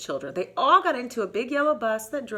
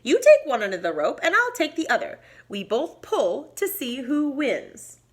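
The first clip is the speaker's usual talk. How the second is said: a touch higher, eager little mouse; a hint of squeak while explaining; lightly voiced mouse; 5 semitones higher, 4 dB louder than usual. Mouse explaining the rope game to Bear, a touch higher.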